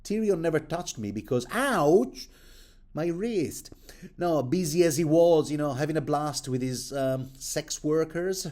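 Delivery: high, loud yelps of pain with an ouch; mock-pained Sansa. Sansa answering her aunt while her wrist is gripped, mock-pained high voice. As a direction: play a girl whose wrist is being squeezed. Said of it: "She goes".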